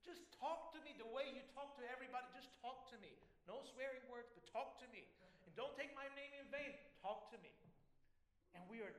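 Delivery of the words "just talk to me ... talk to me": earnest, raised and insistent plea; God urging his children to just talk; pleading God. Acted. God pleading with believers to talk, insistent. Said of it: "God wants to shake us and say".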